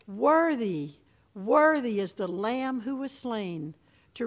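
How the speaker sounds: loud, ringing proclamation of praise; proclaimed praise. Retold or imitated. Heavenly crowd crying praise before the throne, loudly proclaimed. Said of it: "And they cried".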